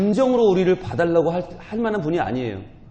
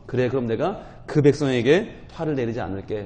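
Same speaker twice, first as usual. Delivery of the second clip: softened God; 3 semitones lower than usual. Acted. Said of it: "하나님은 한층 누그러져서".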